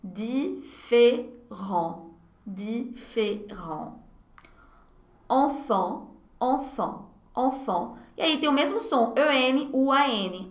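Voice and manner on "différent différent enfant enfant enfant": "Différent" said very slowly with a clear "é"; slow model word. Shown as a demonstration. Teacher repeats "Différent" slowly for the class. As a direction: draw out "Différent" gently. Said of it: "Fica E".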